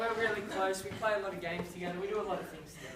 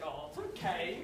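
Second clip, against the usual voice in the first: lower, whispered sweet reassurance; soft whisper; 7 semitones lower, 7 dB quieter than usual. Retold or imitated. Mum forgiving Isaac, soft whisper. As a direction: coo it gently like a doting mum. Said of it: "she's like".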